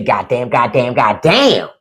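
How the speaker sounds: awed curse. Retold or imitated. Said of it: "A donkey make you say".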